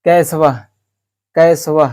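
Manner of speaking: कैसव with the final ह breath sounded; कैसव said loud with its visarga; visarga pronunciation demo. Shown as a demonstration. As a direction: say कैसव ending on a clear breathy ह. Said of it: "कोई का स्व वो ह विसर्ग देते हैं".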